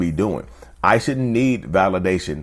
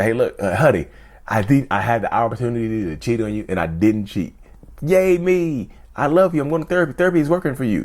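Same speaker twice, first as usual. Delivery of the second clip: mock needy partner; 3 semitones higher than usual. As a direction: play the partner fishing for a pat on the back. Mock needy partner seeking praise.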